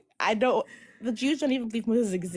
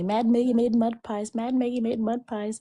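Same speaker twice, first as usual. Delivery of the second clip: louder teasing chant of Mad Maggie; mock yell; 4 semitones higher, 5 dB louder than usual. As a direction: chant it like taunting siblings. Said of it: "they would just, just yell".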